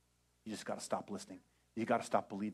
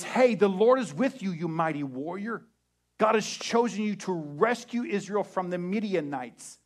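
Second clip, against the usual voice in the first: louder, higher angel announcement; booming angel; 7 semitones higher, 11 dB louder than usual. Retold or imitated. Angel hailing Gideon as mighty warrior, booming. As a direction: proclaim like a heavenly messenger. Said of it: "appearing to him and says".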